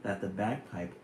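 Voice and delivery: put-on lilting, rhythmic read-aloud of a children's poem. Streamer reading a Silverstein poem to viewers, gently lilting. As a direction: read it like a storybook to kids.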